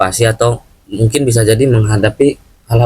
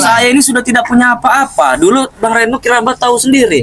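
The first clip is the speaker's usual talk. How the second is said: complaining Bung Laga; 10 semitones higher than usual. Acted. Voicing Bung Laga's complaint.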